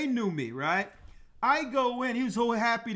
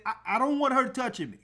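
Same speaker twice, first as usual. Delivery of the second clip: firm demand. Retold or imitated. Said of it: "And I said it just like that".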